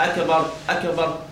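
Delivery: أكبر with a still, unbounced kaf; kaf without echo. Shown as a demonstration. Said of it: "ما تهزهاش".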